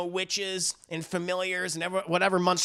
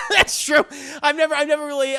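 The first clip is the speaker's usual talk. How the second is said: high, loud, faltering outburst; mock overwhelmed cry; 7 semitones higher, 8 dB louder, faster than usual. Acting Mommy confessing loneliness, hammed-up cry. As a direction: start high and loud, then ease down. Voices Mommy overcome by the offer.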